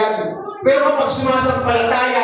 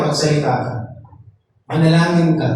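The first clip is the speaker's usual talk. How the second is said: God's command; 9 semitones lower than usual. Acted. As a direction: speak low and firm as God. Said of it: "Ang sabi lang niya". (mababa at mahinahong utos)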